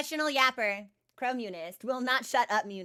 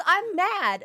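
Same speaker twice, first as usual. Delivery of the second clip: a hint of a sulky cat, a little higher and louder; grumpy cat voice; 6 semitones higher, 6 dB louder than usual. Streamer voicing her sulking cat, a bit higher and louder. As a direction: voice the cat's pout. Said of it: "He says".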